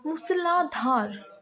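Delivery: मूसलाधार said slowly, each syllable separate; slow careful reading. Shown as a demonstration. Teacher reading मूसलाधार slowly so students catch each sound. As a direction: stretch out मूसलाधार for dictation. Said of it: "तो इसका होगा".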